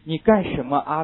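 "你干什么啊" spelled out slowly so each syllable is heard before the 啊 linking; slow liaison demo. Shown as a demonstration. Teacher slowly spells out "你干什么啊" for students to show the Beijing liaison. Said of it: "这是个连读".

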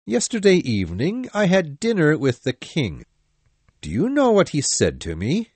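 mildly angry captain, emphatic swoops in pitch; angry shout. A narrator's reading. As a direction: confront your men with restrained anger. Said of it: "he shouted angrily".

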